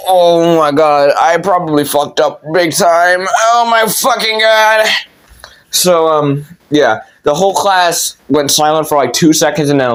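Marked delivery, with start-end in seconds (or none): 0.1-4.9 drawn-out oh-my-god, climbing high at the end; hammed-up dismay, building to a wail; mock panic. Student realizing the trouble after the outburst, panicking. Reacting to own outburst in class.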